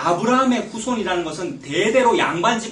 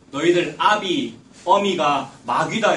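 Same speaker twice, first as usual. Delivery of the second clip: solemn condemnation; 4 dB louder, slower than usual. Acted. Jesus condemns their ancestors.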